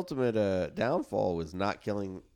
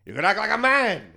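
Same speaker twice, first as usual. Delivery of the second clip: mock Godfather shout; 11 semitones higher, 10 dB louder than usual. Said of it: "Godfather quote".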